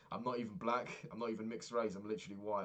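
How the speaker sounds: recounting an exasperated objection; indignant protest. Retold or imitated. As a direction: protest the absurd accusation in disbelief. Protesting a retold racial insult.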